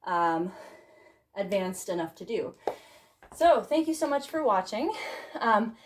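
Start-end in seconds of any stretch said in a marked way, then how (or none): 3.4-5.8 breathless after dancing; panting between words; out of breath. Real, not acted. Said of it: "sorry, I'm out of breath".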